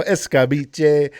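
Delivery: slow, relishing "Escabeche" drawn out as es-ca-bee-shay; escabeche with flair. Shown as a demonstration. Host shows viewers his new accent, drawn out with flair. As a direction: savor "Escabeche" slowly with a flourish, a touch of mock accent. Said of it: "you gotta say it with a little flair".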